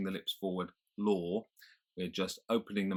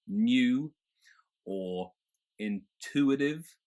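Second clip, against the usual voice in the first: "tuition", "duty" without y sound, higher; General American accent; 5 semitones higher, 4 dB louder, much slower than usual. Shown as a demonstration. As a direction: drop the y sound. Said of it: "you would not have that y sound".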